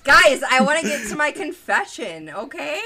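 pleading. Real, not acted. Pleading over noise.

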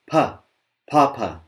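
firm unaspirated papa; pushed papa. Shown as a demonstration. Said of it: "Push from your belly".

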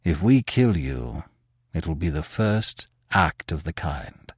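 Manfred calmly reassuring the frightened Terry; gentle. Acted. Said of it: "he resumed gently".

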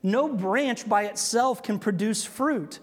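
No branch said slowly with weight on No; emphatic slow. Shown as a demonstration. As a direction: lean on No and slow the whole line. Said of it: "such depth of meaning".

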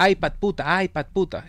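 mock bratty child whining for the iPad; spoiled kid demanding. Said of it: "este niño que nada más dice". (niño malcriado exigiendo, de burla)

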